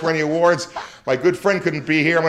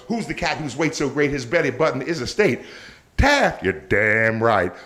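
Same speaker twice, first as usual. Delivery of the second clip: Shaft theme voice; 3 semitones lower than usual. Acted. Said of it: "he's doing Shaft".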